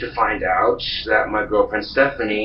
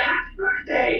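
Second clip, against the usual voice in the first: cheering; 4 dB quieter than usual. Retold or imitated. Crowd cheering at midnight.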